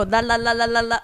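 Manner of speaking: singsong la-la-la babble; blocking-out la-las. Retold or imitated. Comic blocking out audience comments, mock-oblivious babble. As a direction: babble la-la-la to drown out talk.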